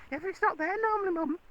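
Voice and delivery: put-on high, quick childlike protest; fast, high-pitched pretend horse voice; horse's child voice. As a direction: voice the horse as a little boy answering Mum. Voices the horse answering his mum.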